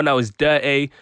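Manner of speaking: light Brummie lilt on DIRTY; Brum accent. Shown as a demonstration. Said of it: "if you put on the Brum accent".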